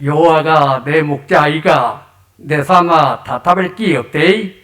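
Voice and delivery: lightly voiced Chungcheong dialect, easygoing; a hint of Chungcheong dialect read aloud; 충청도 사투리로 가볍게. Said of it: "충청도 버전입니다".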